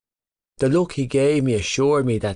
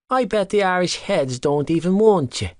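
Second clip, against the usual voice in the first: tossed back angrily; 8 semitones higher than usual. Acted. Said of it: "He tossed back angrily".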